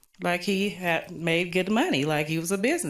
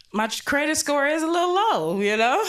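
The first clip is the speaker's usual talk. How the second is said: laughing through the words, higher; 10 semitones higher than usual. Real, not acted. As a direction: break up laughing at your own joke. Laughing at own punchline.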